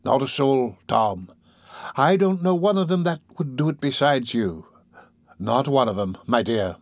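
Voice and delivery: lightly voiced, flattering old villain; a hint of oily reassurance; soothing old schemer. Fagin humours his dupe, soothing old schemer.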